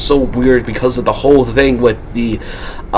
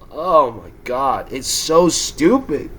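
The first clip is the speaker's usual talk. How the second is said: exasperated sigh; 6 dB quieter, much slower than usual. Real, not acted. Exhausted after shouting.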